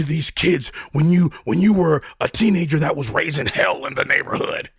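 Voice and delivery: a lightly voiced accusing inner critic. The mind scolding about a prison past, mildly accusing. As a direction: throw the doubts back at yourself, accusing. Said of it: "your mind is gonna tell you".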